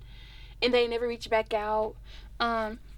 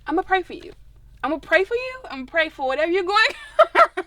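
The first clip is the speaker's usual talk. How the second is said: sassy dismissal; 4 semitones higher, 5 dB louder than usual. Retold or imitated. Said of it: "I'm like".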